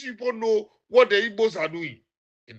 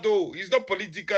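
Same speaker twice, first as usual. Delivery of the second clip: softer, mocking echo of the denial; mock quote; 4 semitones lower, 5 dB quieter than usual. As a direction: quote their claim back with quiet scorn. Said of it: "you are here saying that".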